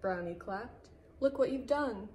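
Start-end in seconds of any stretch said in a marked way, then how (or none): 1.2-2.1 higher, admiring lilt; delighted praise. A narrator's reading. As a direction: marvel at what your friend did. Delighted Brownie praises fox.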